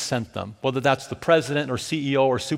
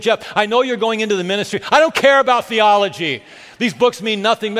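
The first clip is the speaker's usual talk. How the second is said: raised, insistent mock protest; mad wife retold; 4 semitones higher, 4 dB louder than usual. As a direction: imitate an annoyed wife, pitched up. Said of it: "she was still mad".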